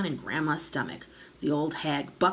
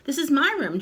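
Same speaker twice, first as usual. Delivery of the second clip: put-on higher, upset boy's protest; indignant boy; 9 semitones higher, 6 dB louder than usual. A narrator's reading. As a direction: complain to grandma. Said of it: "George said".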